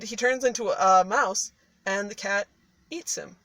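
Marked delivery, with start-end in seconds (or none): none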